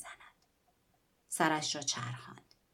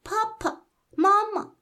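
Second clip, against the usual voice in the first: very high, loud doll squeal; the doll shrieks when crushed; 9 dB louder, slower than usual. Acted. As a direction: shriek it like a squeezed toy. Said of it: "عروسک جیغ کشید".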